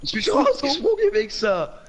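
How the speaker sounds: raging gamer. Real, not acted. Yelling at teammates mid-game.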